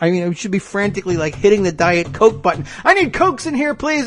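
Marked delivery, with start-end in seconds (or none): 2.8-4.1 high mock president demanding Cokes; mock Trump voice. Host mocking Trump ordering Diet Cokes, in a high squeaky voice. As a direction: squeak it out like a spoiled boss.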